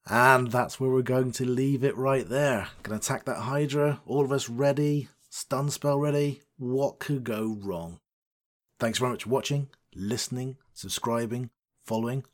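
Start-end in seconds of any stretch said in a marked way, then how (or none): 0.1-8.0 cliffhanger outro. Acted. Dramatic episode outro.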